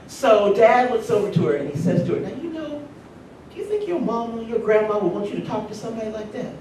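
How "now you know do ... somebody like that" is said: gentle fatherly rebuke. Retold or imitated. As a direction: retell it with kindness, no shame. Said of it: "so sweet the way he said it".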